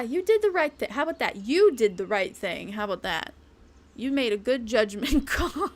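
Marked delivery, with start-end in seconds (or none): 0.0-1.4 high teasing take. Pretend. Teasing the same line twice. 1.4-3.3 lower, deadpan repeat of the praise; low teasing take. Pretend. Teasing the same line twice.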